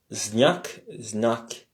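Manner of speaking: znak said the Russian way, z-n-a-k; Russian word znak. Shown as a demonstration. Teacher modelling znak for French learners, careful Russian. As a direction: pronounce znak clearly in Russian. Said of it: "en russe, on dit que c'est".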